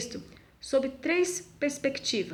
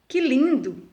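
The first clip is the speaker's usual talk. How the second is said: louder, delighted que lindo!; joyful exclamation; 3 semitones higher, 6 dB louder, slower than usual. Shown as a demonstration. Teacher demonstrates an exclamation with a louder, joyful que lindo!. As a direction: exclaim it with joy. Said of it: "utilizado para expressar uns sentimentos, como espanto, alegria".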